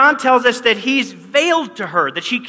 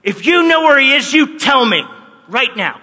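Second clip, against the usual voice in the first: higher, louder confronting demand; angry threat; 4 semitones higher, 4 dB louder than usual. Retold or imitated. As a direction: get in his face and demand it. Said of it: "she kind of gets in his face".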